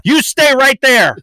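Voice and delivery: high, slow hammed-up constable; mock old-timey officer. Mock old-timey police banter.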